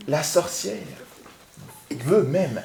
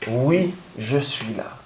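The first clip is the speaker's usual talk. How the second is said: witch voice; 2 semitones lower, 4 dB quieter, slower than usual. Shown as a demonstration. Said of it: "on va faire une voix de sorcier".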